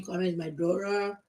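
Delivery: Kwame said like an American, daughter as dora; mock fake American accent. Parody of people faking an American accent. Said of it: "Stop saying".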